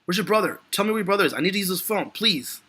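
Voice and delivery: high, urgent pleading; frantic Dan Fielding. Retold or imitated. Stranded man begging to use the brother's phone, high and urgent. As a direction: demand the brother's whereabouts in a panic. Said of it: "Dan Fielding responds".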